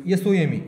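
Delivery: एस ओ एम ई spelled out slowly; teacher spelling slowly. Shown as a demonstration. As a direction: spell it letter by letter. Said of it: "याला म्हणायचं सम".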